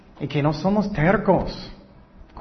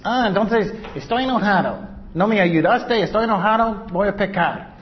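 raised, higher mock tantrum at God; mock angry believer; 5 semitones higher than usual. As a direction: act out a sulky grumble against God. (queja fingida de creyente enojado, más alta)

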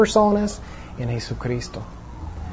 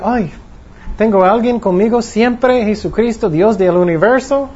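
higher, brighter with delight; joyful inner voice; 5 semitones higher than usual. Pretend. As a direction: rejoice at never being alone. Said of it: "Vas a sentir".

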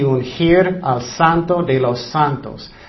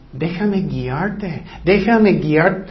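gentle plea; much slower than usual. Acted. God voiced inviting the listener to be guided, slow and tender. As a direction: ease into it like a father guiding his child.

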